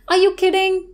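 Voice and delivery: "Are you kidding" held high through "kidding". Shown as a demonstration. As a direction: keep the pitch up to the end of "kidding". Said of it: "raise the intonation towards the end".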